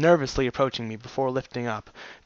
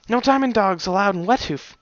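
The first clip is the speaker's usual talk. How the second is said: angry statement; 7 semitones higher than usual. Acted. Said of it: "she stated angrily".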